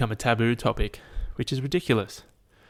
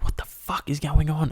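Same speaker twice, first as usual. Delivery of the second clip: higher-pitched bewildered outcry; mock alarm; 5 semitones higher than usual. Podcaster voices an ant seeing giant feet, mock alarm. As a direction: play the baffled ant.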